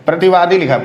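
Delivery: प्रतिवादी said quickly with short दी; short final vowel. Shown as a demonstration. Teacher reads what is written, short ending. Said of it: "प्रतिवादी नहीं होता".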